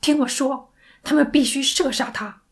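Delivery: loud, high, desperate demand; hysterical shouting. Acted. Sandy deaf to operator's soothing, hysterically shouting. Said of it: "歇斯底里地喊着".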